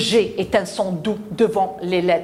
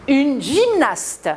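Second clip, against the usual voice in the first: slow modelling; 4 semitones higher, slower than usual. Shown as a demonstration. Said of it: "teacher models the word slowly".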